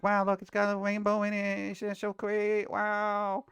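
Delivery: high, cooing fake delight; mock gushing viewer. Mocking the cute-food crowd, cooing fake delight. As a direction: gush over the rainbow like a dazzled fan. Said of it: "when you open it up and it's like".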